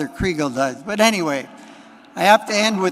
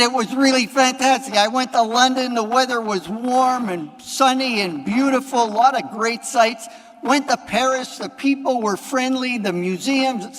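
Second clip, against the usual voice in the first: retold excitement; 5 semitones higher than usual. Priest voices thrilled customer in joke.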